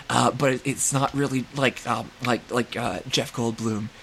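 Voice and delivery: lightly imitated Goldblum stammer, halting with filler words; hint of a halting, hammy actor impression; bad Jeff Goldblum. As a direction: do a half-hearted, hesitant Goldblum impression. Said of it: "I'm just gonna do a bad impression of him".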